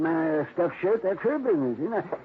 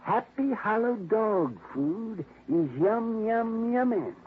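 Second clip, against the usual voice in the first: quoting the slogan; 5 semitones higher, much slower than usual. Retold or imitated. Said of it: "looking for a dog that could say".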